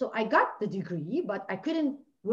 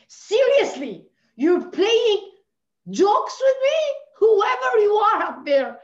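slow, much higher and louder, yelling upward; angry shout at God; 8 semitones higher, 8 dB louder, slower than usual. Real, not acted. A woman shouting at God about being childless, anguished fury. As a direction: demand an answer from the sky, furious.

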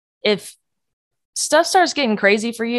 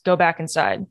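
soft inner voice; 2 semitones lower than usual. Retold or imitated. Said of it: "I heard God's voice".

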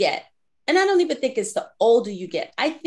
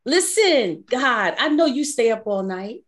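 mock pleading protest; 2 semitones higher, 3 dB louder than usual. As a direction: playfully plead with God to let you sleep. Acts out sleepy protest to God.

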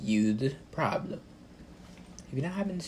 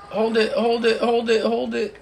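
louder and higher repeated command; urgent shouting; 9 semitones higher, 6 dB louder than usual. Real, not acted. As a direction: bark at the teammate to hold. Urging a teammate in game.

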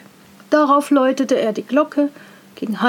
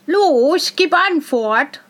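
higher, louder demanding call; 4 semitones higher, 6 dB louder, slower than usual. A narrator's reading. Boy demands an answer from the silent figure, calling out. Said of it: "rief der Junge".

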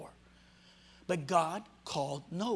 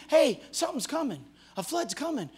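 mock prophet warning; 6 semitones higher than usual. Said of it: "He was preaching".

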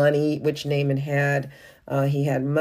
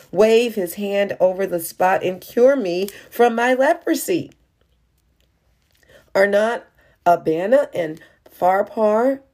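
higher, louder disappointed protest; indignant complaint; 4 semitones higher, 4 dB louder than usual. Acted. Naaman storming off from the prophet, higher and louder. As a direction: voice the hurt pride of Naaman. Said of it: "Naaman went away angry and sad".

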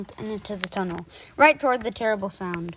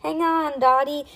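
raised, higher calling voice; shouting; 6 semitones higher, 5 dB louder than usual. A narrator's reading. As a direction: call out to a friend at a distance. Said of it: "he shouted".

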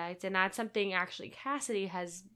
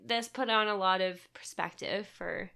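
mock wise conclusion; 5 dB louder than usual. Podcast host mock-concluding a relationship rant, hammed-up guru tone. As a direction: play it like a self-help guru wrapping up. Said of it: "just be like".

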